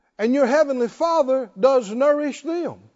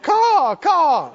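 high, loud cackling caw; laughing caw; 6 semitones higher, 4 dB louder than usual. Retold or imitated. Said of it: "raven laughing".

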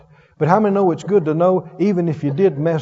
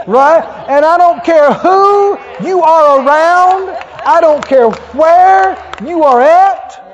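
loud, emphatic preacher's declaration; preaching shout; 10 semitones higher, 8 dB louder, slower than usual. Real, not acted. Preacher declaring to the congregation, full-voiced shout. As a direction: shout it out to the whole church.

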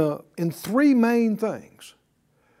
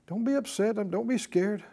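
gentle reassurance; 8 dB quieter than usual. Acted. Jesus comforts the healed woman.

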